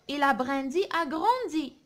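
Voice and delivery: slow, measured model reading; poem read aloud. Shown as a demonstration. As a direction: read it out slowly for pupils to follow. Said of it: "نقراو الشعر هذا مع بعضنا".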